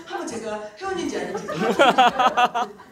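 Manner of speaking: loud, laughing, springing up mid-treatment; eager laughing offer. Retold or imitated. Partner sits up to check the owner's membership, loud and laughing.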